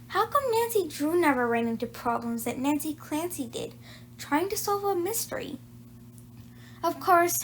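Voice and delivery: lively read-aloud storytelling; story narration. A narrator's reading. Reading Nancy Clancy to young listeners, bright storytelling. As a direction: read it like a children's chapter book. Reads a chapter book aloud.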